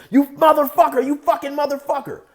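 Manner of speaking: high, heated acted cursing; imitated furious outburst; screaming and hollering. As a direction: holler curses mid-beating. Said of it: "he's screaming and hollering".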